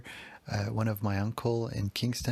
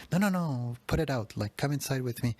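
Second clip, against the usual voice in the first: urgent protest; 3 semitones higher than usual. Retold or imitated. Mom protesting son's continued smoking.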